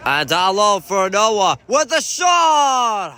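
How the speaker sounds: slow, loud build on the shot; excited call. Real, not acted. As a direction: call the shot rising to a yell.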